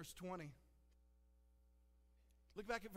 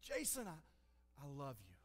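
tender whisper; 5 semitones lower, 3 dB quieter than usual. Acted. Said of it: "God's voice just whispers in your heart".

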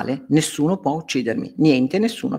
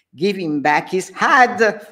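mock shout; 6 semitones higher, slower than usual. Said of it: "Friedrich shouted".

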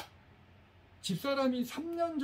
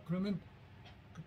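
ordinary delivery

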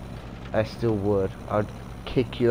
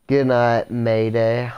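louder, called-out goodnight; 4 dB louder, slower than usual. Acted. To Mayday, a loud called goodnight. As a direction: call it out as a parting shot.

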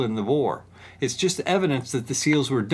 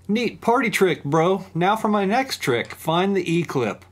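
sarcastic; 4 semitones higher than usual. Pretend. Mocking himself after a clumsy slip.

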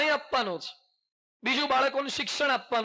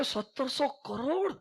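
put-on amazed boy; 3 semitones higher, slower than usual. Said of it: "મને કહે".

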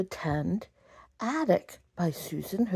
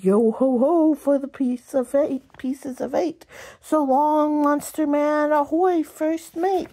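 pirate voice; 7 semitones higher, 4 dB louder than usual. Acted. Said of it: "Joe cried".

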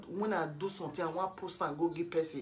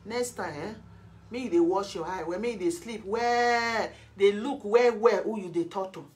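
heated threat, getting louder; stern warning; 5 dB louder than usual. Real, not acted. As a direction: warn them forcefully, stretching the key words. Warning an opponent.

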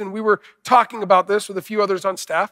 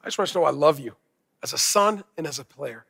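loving dad's words; 4 semitones lower, 5 dB quieter than usual. Retold or imitated. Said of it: "the first things his dad says is what?".

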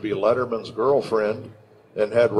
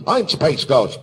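lightly voiced hero, staking the claim; Space Ghost. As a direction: declare it like a cartoon superhero. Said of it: "back and forth we do the".

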